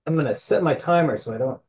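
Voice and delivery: hoarse from allergies; a hoarse, scratchy throat. Real, not acted. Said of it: "I've got some coughing and some hoarse voice".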